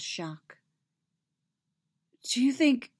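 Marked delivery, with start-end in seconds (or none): 2.2-2.9 higher, sudden question; abrupt, raised-pitch start; blurted out. A narrator's reading. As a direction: blurt it and break off. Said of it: "she blurted out".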